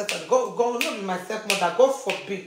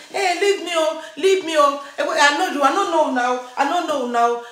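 higher-pitched pleading protest; imitating a flustered denial; retold protest; 6 semitones higher than usual. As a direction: act out pushing off accusers, voice raised in pitch. Woman denying those who hold her.

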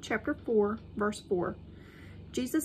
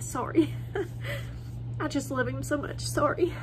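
tearful; 4 semitones higher than usual. Real, not acted. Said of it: "I get emotional".

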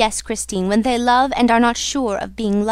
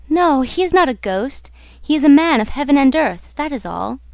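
earnest heroine setting him straight, easing off at the end; firm correction; 4 semitones higher, 3 dB louder than usual. Acted. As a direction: state it firmly, then let it settle. Heroine corrects her lover, then echoed.

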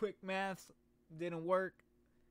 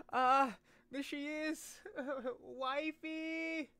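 excited swooning; 9 semitones higher, much slower than usual. Real, not acted. Streamer swoons at anime girl.

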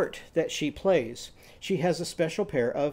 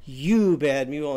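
mild mock scolding; 3 dB louder than usual. Shown as a demonstration. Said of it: "think of her scolding the mule".

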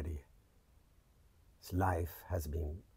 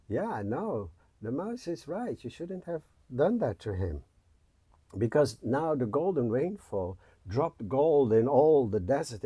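little spider voice; 5 semitones higher, 7 dB louder than usual. Acted.

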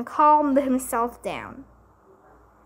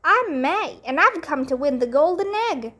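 eager greeting; 6 semitones higher than usual. Acted. May greeting eagerly, child voice.

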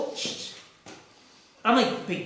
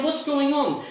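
urgent demand; 8 semitones higher, 3 dB louder than usual. Retold or imitated. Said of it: "I said".

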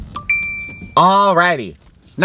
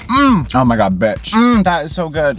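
delighted moan of pleasure; savoring delicious food. Real, not acted. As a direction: melt over the first bite. First bite of crispy chicken.

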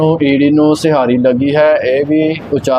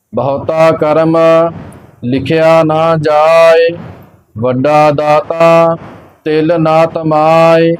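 slow, measured sacred recitation; scripture recitation; much slower than usual. Acted. Teacher reciting Gurbani for learners, slow measured chant-like reading. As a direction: recite evenly, drawing out the line endings.

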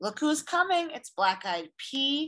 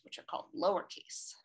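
whispering; 7 dB quieter, faster than usual. Shown as a demonstration. Whispered teaching line.

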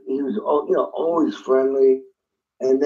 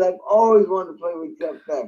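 flipping out; 5 semitones higher than usual. Retold or imitated. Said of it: "I was flipping out".

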